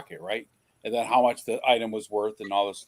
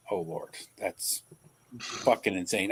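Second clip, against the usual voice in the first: disbelieving mutter; 5 semitones lower, 7 dB quieter, slower than usual. Retold or imitated. Reacting to shoplifter's excuse.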